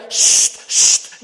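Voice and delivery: sharp whispered hush; shushing. Acted. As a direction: hiss them into silence. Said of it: "mensen zeggen".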